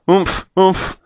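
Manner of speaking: booming bear noise. Acted. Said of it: "boomed the big bears outside".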